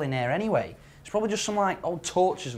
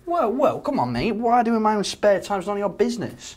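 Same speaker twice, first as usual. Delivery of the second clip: defensive; 6 dB louder than usual. Acted. Defensive friend hits back.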